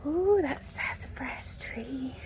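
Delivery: soft slow whisper of delight; hushed admiring whisper. Real, not acted. To the viewers about a tree, a slow hushed whisper. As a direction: breathe it out slowly in awe.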